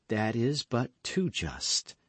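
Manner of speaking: slow, tender concession. Acted. Lady tenderly granting her lover's request. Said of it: "said she tenderly".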